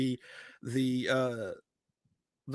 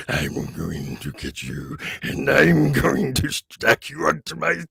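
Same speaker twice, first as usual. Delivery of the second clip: cadaver collector voice; 5 dB louder, slower than usual. Shown as a demonstration. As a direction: threaten to stack them on spikes. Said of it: "the voice I just did would be for something like him".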